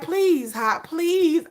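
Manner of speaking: mock begging. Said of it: "I'm begging Hype".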